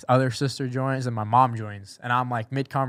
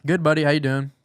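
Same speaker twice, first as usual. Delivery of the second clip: imitating a cheerful boss, slightly higher and louder; happy greeting; 4 semitones higher, 5 dB louder than usual. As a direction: greet a buddy happily on the phone. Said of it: "You can tell he's all happy".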